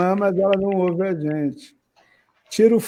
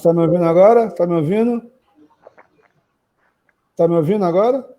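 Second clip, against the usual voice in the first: raised voice, checking the line; to someone hard of hearing; much faster than usual. Real, not acted. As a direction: call out to be heard. Checking if she can hear them.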